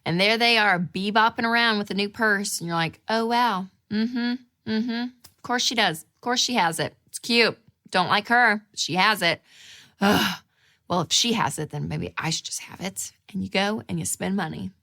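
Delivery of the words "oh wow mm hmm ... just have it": acted disdain for a coworker; snide, put-on disapproval; disgust. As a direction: judge her with mock disgust.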